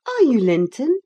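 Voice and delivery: put-on high, bright eager girl's voice; young girl calling out eagerly. A narrator's reading.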